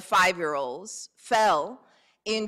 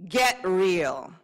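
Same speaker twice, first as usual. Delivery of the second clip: put-on angsty teenager, dismissive and heavy; eye-rolling teen brush-off; sulky teen mumble; 3 dB louder than usual. Shown as a demonstration. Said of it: "say it like an angsty teenager".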